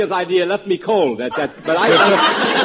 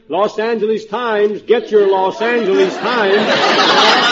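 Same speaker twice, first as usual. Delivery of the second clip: newsboy hollering; slower than usual. Retold or imitated. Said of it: "this guy is hollering".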